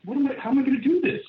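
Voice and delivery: high, fast panicked squeak; half-joking alarm at his own promise; mock panic. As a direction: play up the panic, racing and high-pitched.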